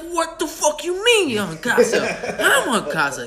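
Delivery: high-pitched indignant squawk, stretched out; mock outrage. Retelling a show's stomping Brooklyn character, in mock outrage. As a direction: imitate a comic character's outrage, half laughing. Acted skit quarrel with stomping.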